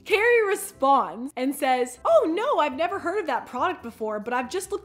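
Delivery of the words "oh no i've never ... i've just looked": higher, chirpy fake-innocent voice; a hint of a fake innocent friend; mock innocent friend. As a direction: play dumb sweetly. Mocking Carrie's fake innocence.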